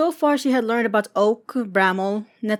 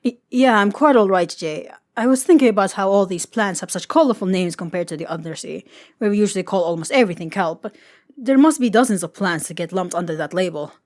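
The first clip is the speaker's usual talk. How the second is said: flustered Gil; 4 dB louder than usual. Acted. Gil answering Jay after nearly being caught, flustered ramble. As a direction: caught off guard, stammering start then rambling on.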